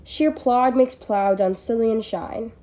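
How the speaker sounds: slow, deliberate recitation of the verse; poem line read aloud slowly. Shown as a demonstration. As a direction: savour each word of the line slowly. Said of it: "that's a real showstopper".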